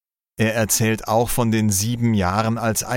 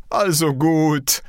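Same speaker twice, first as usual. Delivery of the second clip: high-pitched exclamation from the head cook; calling out; 7 semitones higher than usual. A narrator's reading. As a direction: call it out high, giving in. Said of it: "ruft da der Küchenmeister". (hoch ausgerufen)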